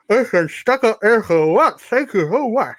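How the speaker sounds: mock-polite dragon with something stuck in his mouth; talking past something caught on the tongue, laughing at the end; imitating Draco. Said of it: "And Draco goes".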